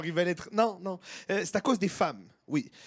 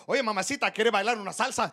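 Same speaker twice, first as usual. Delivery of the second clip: Spanish flirt. Retold or imitated. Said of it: "l'espagnol, ça danse".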